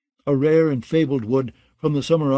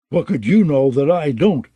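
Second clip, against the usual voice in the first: a grumbling, sour question, pushed louder; grumbled; 5 dB louder than usual. A narrator's reading. Molander grumbles at Alaris's boast, sour and grumbling. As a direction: grumble it like a grudging rival. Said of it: "grumbled Molander".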